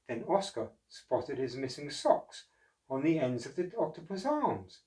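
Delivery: put-on lively read-aloud voice for children; storybook narration. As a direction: tell it like a bedtime picture book.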